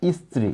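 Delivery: স্ত্রী said as stri with no vowel before the s; teacher's demo of the source form stri; স্ত্রী modelled in its original cluster; original pronunciation. Shown as a demonstration. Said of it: "মূলত ছিল".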